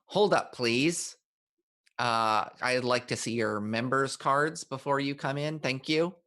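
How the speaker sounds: prim, fussy elf doorman; nerdy elf. Acted. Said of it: "I'll do a nerdy elf".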